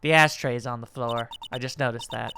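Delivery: low, soft, deadpan secretary voice; creepy secretary. Acted. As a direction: speak low and eerily calm as the odd secretary. Secretary character voiced in game.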